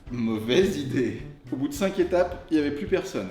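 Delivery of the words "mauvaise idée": put-on slow, drawn-out old man voice; grandpa voice. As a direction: drag it out like a weary grandpa. Punchline after the Dakar flop.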